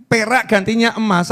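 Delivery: ordinary talk, nothing marked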